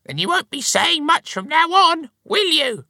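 very high, loud mocking wife; piercingly high, scornful retort; scornful snort. A narrator's reading. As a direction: sneer it back in a high squawk. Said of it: "snorted Missus Grunt".

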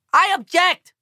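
put-on loud, high Chinese accent; proclaiming. A narrator's reading. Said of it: "proclaims the Chinese ambassador".

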